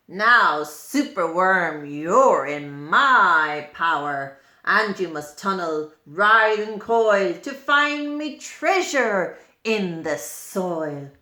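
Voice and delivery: low, emphatic villain's order; a hint of a gloating wizard laying down orders; lightly voiced commanding wizard. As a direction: lord it over your captive, lightly. Wizard lizard commands the captive worm.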